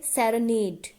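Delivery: slow सेरेनेड, stressing the last syllable नेड; two unstressed syllables, then stressed नेड in सेरेनेड. Shown as a demonstration. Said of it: "तीसरे वाला जो होगा".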